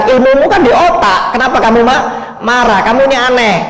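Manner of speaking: lightly voiced student rebuking the lecturer; defiant student retort. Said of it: "kata muridnya".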